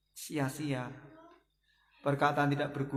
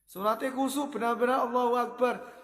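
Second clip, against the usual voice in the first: emphatic teaching; 9 semitones higher, 3 dB louder than usual. Real, not acted. Teacher stressing sincere prayer.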